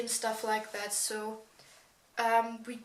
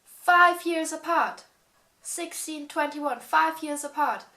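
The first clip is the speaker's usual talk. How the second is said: indignant; 5 semitones higher, 6 dB louder than usual. Real, not acted. Indignant about drinking ages.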